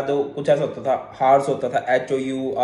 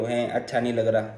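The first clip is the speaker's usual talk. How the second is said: lower, softer imitation of a student; mimicked student complaint; 4 semitones lower, 5 dB quieter than usual. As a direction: lightly mimic a grumbling student.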